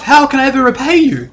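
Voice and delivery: high, gushing half-elf barmaid; grateful barmaid. Acted. Half-elf barmaid thanking her rescuers, high gushing voice. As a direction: gush your thanks in a lifted voice. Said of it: "She walks over to you and goes".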